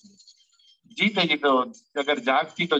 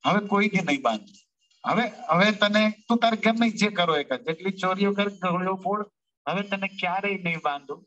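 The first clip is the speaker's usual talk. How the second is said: a mother's rising, hurried plea, a little higher; mother Yashoda pleading; 4 semitones higher than usual. Acted. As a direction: promise him everything, begging him to step down. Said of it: "कहे छे कि". (बेटे से विनती करती माँ की हल्की आवाज़)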